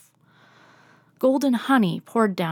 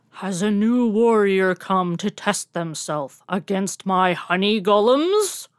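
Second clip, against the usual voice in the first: slow, looming voice of a bee tornado; slow booming bee swarm; buzzing bee swarm voice; 4 dB louder than usual. Acted. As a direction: challenge the warrior like a swarm of bees. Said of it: "the bee tornado buzzed".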